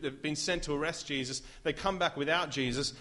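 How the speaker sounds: ordinary talk, nothing marked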